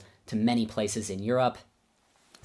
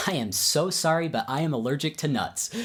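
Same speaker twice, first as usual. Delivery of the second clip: high, louder, emphatic retold apology; played-up apology; 5 semitones higher, 4 dB louder than usual. Pupil refusing his teacher's dessert, played-up apology. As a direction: apologise with exaggerated regret, pitched up.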